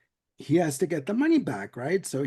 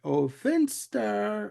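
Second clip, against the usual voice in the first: slow, drawn-out doting coo, a touch higher; mock doting coo; 4 semitones higher, much slower than usual. Bugs starts his baby routine on Finster, slow mock coo. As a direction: stretch "Finster" like cooing at a baby. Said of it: "he goes into the routine like".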